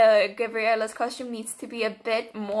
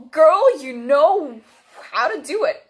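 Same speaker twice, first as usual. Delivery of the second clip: loud admiring; 4 semitones higher, 7 dB louder than usual. Real, not acted. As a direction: cheer her on.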